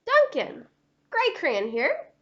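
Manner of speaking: loud, groaning tired crayon voice; weary Gray Crayon. Acted. Gray Crayon pleading with Duncan for small things, worn out. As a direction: moan about the huge animals.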